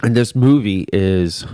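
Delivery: talking between sips of a drink; words around a sip of a drink; while sipping a drink. Real, not acted. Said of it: "sorry, I'm drinking a lot".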